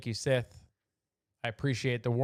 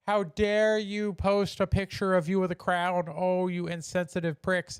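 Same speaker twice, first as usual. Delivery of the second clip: mock outrage; 5 semitones higher than usual. Mocking outraged online critics.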